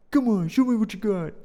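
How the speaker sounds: taunting. Acted. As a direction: goad the other kid to swing. Acted kids' standoff.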